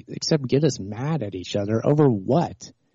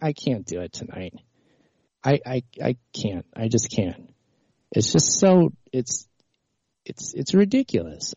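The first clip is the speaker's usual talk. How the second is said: upset. Real, not acted. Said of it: "I'm getting upset about this".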